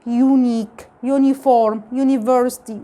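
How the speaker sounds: "يونيك", "يونيفورم", "يونيفرسيتي" each opened with a long yoo; word list demo. Shown as a demonstration. Teacher lists example words for students, clearly modelled. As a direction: read the list, leaning on the yoo. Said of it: "فنطقته بصوت اللونج اليو الطويلة".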